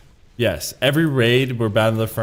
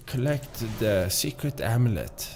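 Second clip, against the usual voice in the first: soft-spoken mock German villain; badly faked German accent for an evil henchman; 5 dB quieter than usual. Shown as a demonstration. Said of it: "like, the voice that I'm trying to do".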